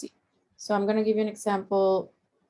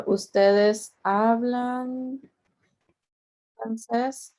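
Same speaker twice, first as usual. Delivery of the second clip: very slow, drawn-out question, lifting at "francés"; rising question intonation; 2 semitones higher, much slower than usual. Shown as a demonstration. Teacher demonstrating questions to students, slow rise on "francés". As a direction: stretch "hablan" and raise the voice on "francés". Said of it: "your voice is going up".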